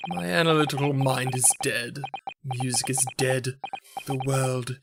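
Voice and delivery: mopey Sholmes. Acted. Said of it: "Oh my God".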